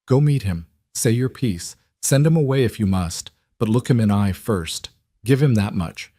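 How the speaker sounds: put-on older woman, thick Polish accent. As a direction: speak with a heavy Polish accent. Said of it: "in her thick accent".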